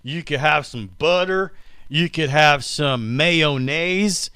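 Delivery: a put-on voice for bread talk, drawn out; goofy bread voice. Host slips into his bread-talk voice, a silly drawn-out voice. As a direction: drawl the toppings in a silly voice. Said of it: "what that voice is".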